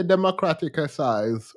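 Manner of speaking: democraticize with an extra syllable, de-mo-cra-ti-cize; Jamaican country pronunciation. Shown as a demonstration. Teasing Jamaicans on stream, says democraticize with extra syllable. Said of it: "we have to say democraticize".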